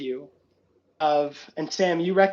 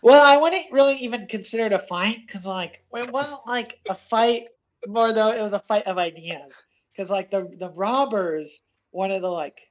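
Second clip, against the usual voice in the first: higher, rambling dopey voice that trails with likes; a clueless kid fumbling an excuse, pitched up; rambling Dick voice; 4 semitones higher than usual. Acted. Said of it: "Dick goes".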